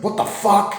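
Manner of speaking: high, loud startled what the fuck; sudden high-pitched shocked cry; mock shocked outburst. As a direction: blurt it out in fake shock. Character reacts in shock.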